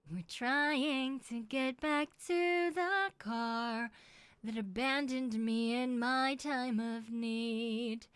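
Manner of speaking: slow, drawn-out storyteller voice; story narration. Acted. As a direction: narrate it like an epic tale. Dramatic story narration of run.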